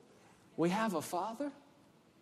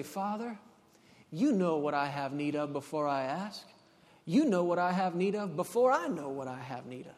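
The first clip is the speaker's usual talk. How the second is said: gentle prayer; 5 semitones lower than usual. Acted. Models a trusting prayer to Father.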